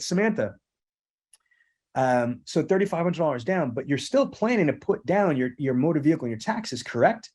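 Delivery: steady, assumptive statement-question; with confidence. Shown as a demonstration. Salesman showing trainees the confident way to ask for taxes. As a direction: state it like the bank representative. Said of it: "I said it with, like, bass in my voice, like, with, with, with confidence".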